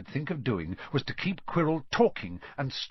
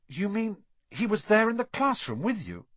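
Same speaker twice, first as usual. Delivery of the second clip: higher, breathless shocked question; a boy's horrified realisation; Harry gasping at Quirrell; gasped; 9 semitones higher than usual. A narrator's reading. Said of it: "Harry gasped".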